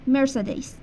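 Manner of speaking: "مرسدس" said as mer-SAY-dez with an ending like "days"; English pronunciation. Shown as a demonstration. Teacher showing students how English speakers say مرسدس.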